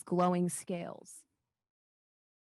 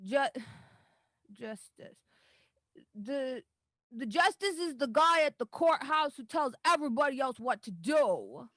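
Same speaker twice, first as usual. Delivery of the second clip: put-on hesitant little girl, pitched up; unsure child; 5 semitones higher than usual. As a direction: puzzle it out like a small kid. Daisy explains justice naively.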